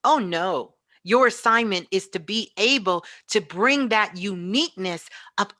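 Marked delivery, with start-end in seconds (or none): none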